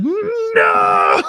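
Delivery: high, loud desperate shout through laughter; mock shout. Kid on the bus yelling at the boy holding his book. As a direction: yell after the kid with the book.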